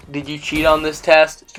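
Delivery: calm, level questioning, imitating mom; mom's composed question, retold. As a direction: ask it evenly, without accusing. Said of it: "Very calmly".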